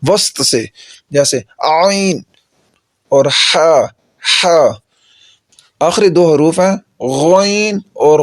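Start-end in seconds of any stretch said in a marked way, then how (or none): 1.1-4.6 عین and ہا drawn out slowly from mid throat; teacher sounding out throat letters; demo of ain and ha. Shown as a demonstration. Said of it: "یہ گلے کے درمیان سے ادا ہوتے ہیں".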